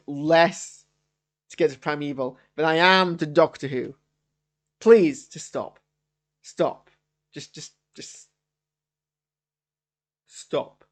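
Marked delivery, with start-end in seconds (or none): 4.8-6.9 slow, loud, drawn-out please; fed-up plea. Real, not acted. Reviewer begging fans to just stop. 7.3-10.8 soft, breathy whisper; whispered plea. Real, not acted. Reviewer whispering a plea to stop.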